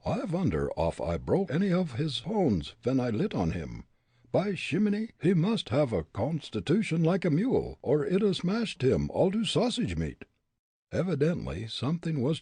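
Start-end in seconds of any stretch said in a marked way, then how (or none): 0.0-10.3 put-on higher German-accented musing; a comic German fretting. Fritz under the tree, German accent.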